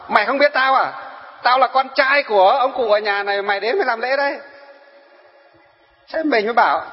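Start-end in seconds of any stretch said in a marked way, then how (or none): 0.1-4.4 mock rude retort. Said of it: "Thế nó bảo".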